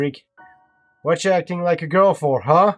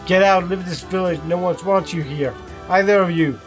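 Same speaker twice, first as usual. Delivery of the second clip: louder, spiteful order; the bully driving Kaine from the village; hostile command; 4 semitones higher, 4 dB louder than usual. A narrator's reading. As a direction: spit it out with contempt.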